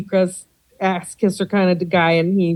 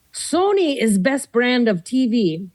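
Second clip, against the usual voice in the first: put-on stereotyped Japanese accent; 4 semitones higher, slower than usual. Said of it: "this is what I said".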